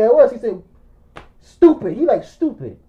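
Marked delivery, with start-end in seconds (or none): 1.4-1.9 loud, high retold insult; exasperated insult. Friend scolding him for watching, exasperated. 2.2-2.8 lower, softer retold insult; muted insult. Friend scolding him for watching, muted disgust.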